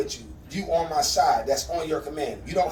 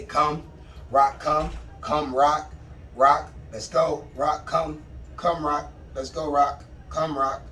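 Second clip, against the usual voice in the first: calling the dog; slower than usual. Shown as a demonstration. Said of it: "I say it multiple different ways".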